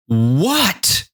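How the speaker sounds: high rising cry of "what". Acted. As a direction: cry it out in disbelief, like startled ants. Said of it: "cried the ants like this".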